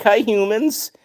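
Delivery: high voice for the cat. Pretend. Streamer voicing the cat greeting humans in a high squeaky voice. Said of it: "You like".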